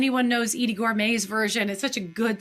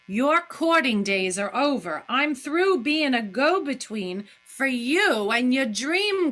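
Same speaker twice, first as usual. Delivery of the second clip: acted Daisy; 3 semitones higher than usual. Acting Daisy's angry speech.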